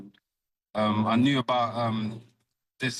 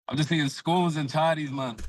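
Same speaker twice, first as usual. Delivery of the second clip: put-on higher-pitched, half-convincing Scottish accent; fake Scottish accent; 5 semitones higher than usual. Boxer repeating his food joke for baffled hosts, fake Scottish accent. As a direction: try on a jokey Scottish accent. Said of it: "That was my fake, uh, Scottish accent".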